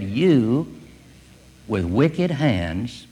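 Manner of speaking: pointed, drawn-out "You"; plain-spoken accusation. Retold or imitated. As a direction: stress on "You", slow and deliberate. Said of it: "out in very plain, simple language".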